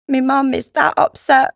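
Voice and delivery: high-pitched Cockney lad, upset; despairing boy. A narrator's reading. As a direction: speak as a miserable East End boy. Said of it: "dull tone of one driven almost past tears to despair".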